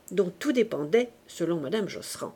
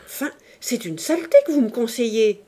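shouted; 3 semitones higher, 6 dB louder than usual. Acted. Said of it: "cria monsieur Josserand".

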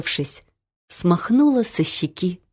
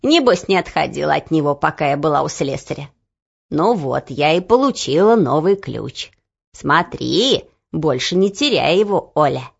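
grandmother voice; 4 semitones lower than usual. Acted. Grandmother speaking.

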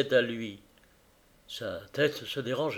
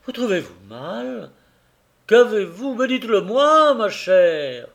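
higher, louder, urgent questions; pleading husband; 7 semitones higher, 7 dB louder than usual. A narrator's reading. Carrier holding his fainting wife, urgently pleading and louder. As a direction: beg her to tell him what is wrong.

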